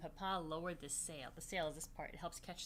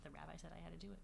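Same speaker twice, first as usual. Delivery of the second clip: mock excuse; 9 dB quieter, much faster than usual. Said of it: "just say".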